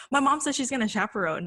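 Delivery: re-enacted giddy announcement; slap happy. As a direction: brag to the teacher, thrilled. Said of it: "I was, like, slap happy".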